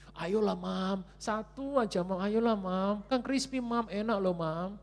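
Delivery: put-on high, insistent childlike coaxing; pleading child. Child nagging mother for crispy chicken, high pleading. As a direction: beg Mom for just one.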